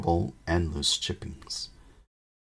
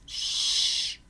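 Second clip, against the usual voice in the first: shushing. A narrator's reading. Someone in the chimney hushing the others, whispered. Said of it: "Somebody inside the chimney piece said".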